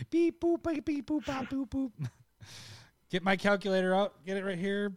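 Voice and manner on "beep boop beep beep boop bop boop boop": high robotic beep-boop chant. Pretend. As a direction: beep like a toy robot computing. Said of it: "We have a real robot running these numbers".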